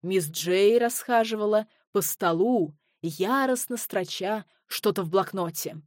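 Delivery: usual speaking voice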